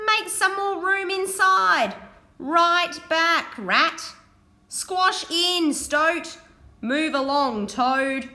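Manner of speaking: busy driver barking orders; driver calling orders. Acted. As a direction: order the animals to squash in. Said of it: "she cried".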